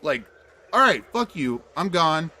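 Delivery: high, fast panicky backing off; panicked retreat. Retold or imitated. Fleeing an ex-cop chasing her, panicked. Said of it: "And I'm like".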